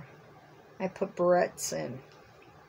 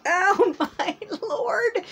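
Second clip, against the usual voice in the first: laughing; 13 semitones higher, 5 dB louder, much slower than usual. Real, not acted. Laughing at the dog.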